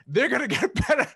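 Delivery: rising into a laugh on "get better"; mock her old know-it-all self, laughing. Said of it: "I was like".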